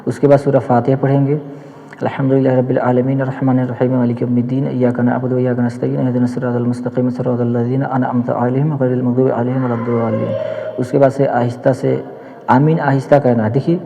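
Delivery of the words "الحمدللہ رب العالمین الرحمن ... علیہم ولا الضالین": Quranic recitation. Shown as a demonstration. Teacher showing students the prayer's Surah Fatiha, quiet recitation. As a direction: recite the verses quietly in a continuous run.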